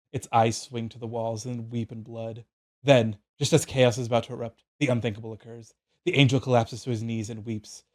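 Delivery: measured, solemn reading of an epic scene; game master narration. A narrator's reading. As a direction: read it like a fantasy tale, phrase by phrase. Reads out the DM's written narration.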